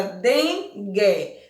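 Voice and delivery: "dengue" split into two separate beats; syllable by syllable. Shown as a demonstration. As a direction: say "dengue" slowly, pausing between den and gue. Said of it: "quando você pronuncia a palavra".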